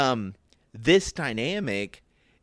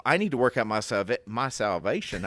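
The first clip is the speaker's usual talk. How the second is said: slipping into a Southern accent. Real, not acted. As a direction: let a Southern twang take over. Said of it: "I went all Southern on that".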